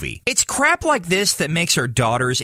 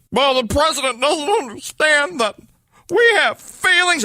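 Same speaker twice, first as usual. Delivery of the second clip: high, whiny politician voice; John Boehner; 10 semitones higher than usual. Pretend. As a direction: squeak it out like a hurt politician. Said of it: "I mean John Boehner, how'd you do?".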